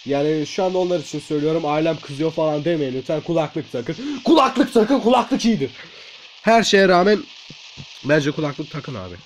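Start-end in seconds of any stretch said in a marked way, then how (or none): 3.2-4.2 slow, softer instruction; understated request. Real, not acted. First headphone request, understated. 4.2-5.7 higher put-on voice; high-voiced urging. Repeats request in high voice.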